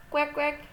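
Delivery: mild mock quacks; playful duck imitation; duck quacking.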